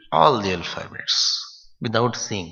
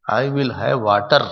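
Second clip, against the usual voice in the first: Indian accent. Shown as a demonstration. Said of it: "if you are from India, especially U P".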